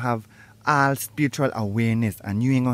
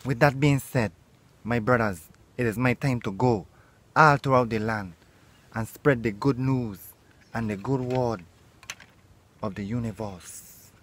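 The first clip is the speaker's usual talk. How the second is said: solemn farewell. Acted. Guru bids his brothers farewell, solemnly fading. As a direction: bless them and depart.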